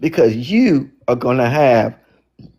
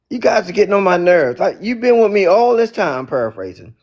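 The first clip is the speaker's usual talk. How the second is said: exasperated; 6 semitones higher than usual. Retold or imitated. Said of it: "And Jesus like".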